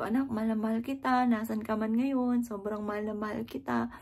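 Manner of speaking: put-on soft and slowed, full of love for a lost child; a grieving mother telling her daughter she loves her, tenderly; tender, loving.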